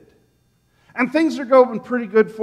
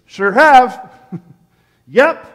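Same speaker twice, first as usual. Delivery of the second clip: cocky bluff; 5 semitones higher, 9 dB louder, much slower than usual. Acted. Peter bluffing the temple guards.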